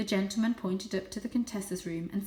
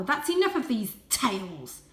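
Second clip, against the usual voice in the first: disgusted; 3 semitones higher, 5 dB louder than usual. Acted. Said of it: "He spat out the word tales with particular disgust".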